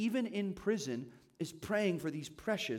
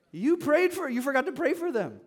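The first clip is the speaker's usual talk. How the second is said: higher and louder, playful accusing burst; mock exclamation; 7 semitones higher, 5 dB louder than usual. Preacher teases congregation who forgot to pray, loud and high. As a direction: jump up in pitch and volume as if catching them out.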